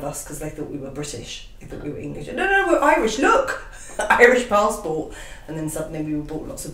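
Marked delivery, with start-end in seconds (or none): 2.3-5.1 higher, louder mock pleading; urgent retold protest. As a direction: protest your innocence, high and loud. Acted protest to angry locals.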